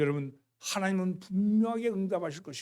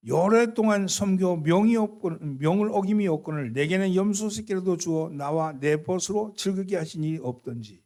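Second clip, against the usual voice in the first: complaining; 4 dB louder than usual. Acted. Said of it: "이렇게 불평하는 겁니다".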